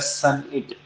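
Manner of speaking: सनइट in two parts, "sun-it"; correct pronunciation. Shown as a demonstration. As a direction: say सनइट with a short "sun" first, then "it". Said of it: "इसको बोला जाता है".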